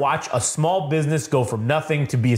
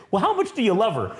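high mock question; 6 semitones higher than usual. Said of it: "that's what he says".

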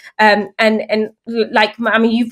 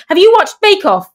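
proud announcing; 5 semitones higher, 3 dB louder than usual. Retold or imitated. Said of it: "announcing it to anyone".

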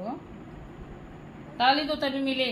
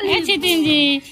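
high call for attention; 4 semitones higher, 4 dB louder than usual. Real, not acted. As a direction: hail someone playfully. Calling a visitor to notice baby.

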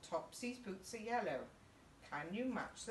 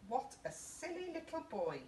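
teasing teacher; 8 semitones higher than usual. Acted. Teacher scolds Tim in story.

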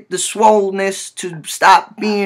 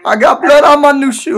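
outraged wail; 6 semitones higher, 4 dB louder than usual. Acted. Prank caller wailing over shoe.

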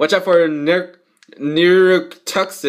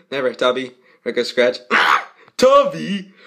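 ordinary delivery

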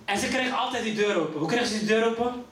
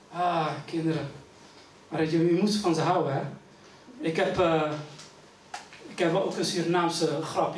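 low aside; 7 semitones lower than usual. Acted.

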